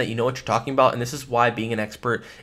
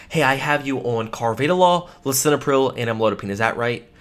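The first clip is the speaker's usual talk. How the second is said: stern, confident. Shown as a demonstration. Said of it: "a very stern and very confident".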